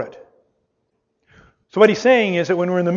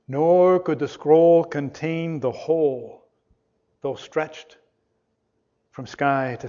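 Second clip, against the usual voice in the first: recited hymn. Acted. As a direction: read the hymn lines reverently, slowing down.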